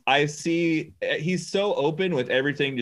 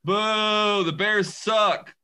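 mock booing; 8 semitones higher, much slower than usual. Real, not acted. Booing a football star on TV.

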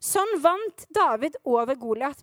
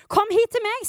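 Goliath's challenge; 6 semitones higher, 4 dB louder than usual. A narrator's reading. Goliath challenges David in the story.

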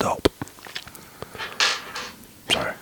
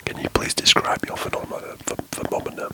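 hushed podcast whisper, breathy and close; 2 semitones higher than usual. Real, not acted. Whispers all through podcast.

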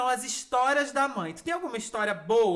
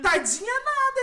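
much higher, louder "nada" shot back; scoffing retort; 13 semitones higher, 7 dB louder than usual. Real, not acted. Daughter rejecting her friend's pity for her mother, loud scoff.

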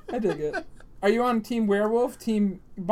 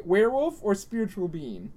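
whispering. Real, not acted. Whispered question.

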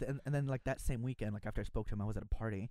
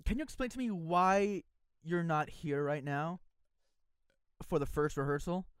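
slow, pointed, a touch louder and higher; stern director; 4 semitones higher, 3 dB louder, slower than usual. Retold or imitated. Director scolding him by phone, slow and pointed. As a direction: draw out each word like a disappointed director.

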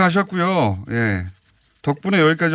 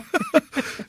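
bright high laugh; 14 semitones higher, 5 dB quieter than usual. Real, not acted. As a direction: burst out laughing. Host laughs at joke.

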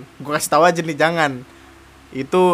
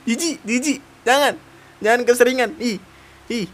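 jijik dibuat-buat; 6 semitones higher than usual. Pretend. Pura-pura jijik.

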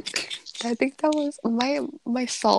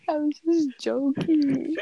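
trying not to laugh; 5 semitones higher, much slower than usual. Real, not acted. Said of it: "I'm trying not to laugh out loud".

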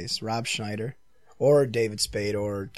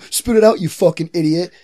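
hammed-up yell, much higher and louder; mock angry shout; 6 semitones higher, 8 dB louder than usual. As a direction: bark it like a celebrity losing his temper. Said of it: "And Tom Hanks was just like".

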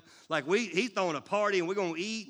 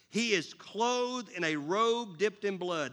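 a measured, proclaiming Bible read; scripture reading; 3 semitones higher, slower than usual. Acted. Pastor reads Revelation to the congregation, proclaiming. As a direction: read it to the church with weight.

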